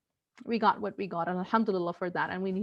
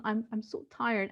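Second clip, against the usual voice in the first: softer, weary admission; tired; 5 dB quieter than usual. Retold or imitated. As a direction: say it quietly, worn out. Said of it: "She told her two-year-old son".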